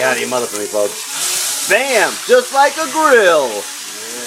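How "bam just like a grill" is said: loud, high, slow Bam; catchphrase shout. Pretend. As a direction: shout it like a TV chef. Chef catchphrase.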